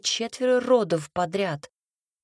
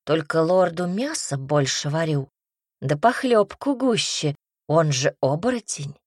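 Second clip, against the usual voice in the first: mildly indignant self-defence; firm, affronted justification; 4 dB louder than usual. Acted. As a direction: push back against the accusation. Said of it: "возмутилась женщина".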